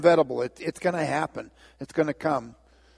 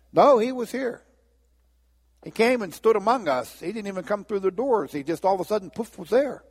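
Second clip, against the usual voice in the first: excited disciples; 5 semitones higher than usual. Acted. Disciples excitedly tell Thomas.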